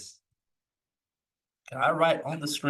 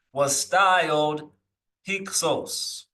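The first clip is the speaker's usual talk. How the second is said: 1 Manetho quote; 2 semitones higher, much slower than usual. Retold or imitated. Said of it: "this is Manetho speaking".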